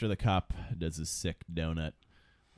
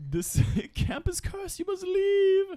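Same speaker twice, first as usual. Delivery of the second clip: put-on slow, high creepy old man voice; slow ominous raspy drawl; 6 dB louder, slower than usual. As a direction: drag it out like a crazed prophet. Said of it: "And he's like".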